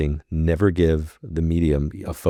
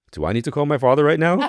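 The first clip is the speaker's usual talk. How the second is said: alarmed inner voice; 9 semitones higher than usual. Retold or imitated. Panicked inner thought about psychic.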